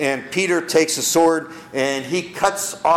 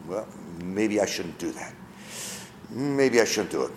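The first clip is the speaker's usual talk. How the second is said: timid hesitation; 8 semitones lower, 8 dB quieter than usual. Acted. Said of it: "want to pray in public and you".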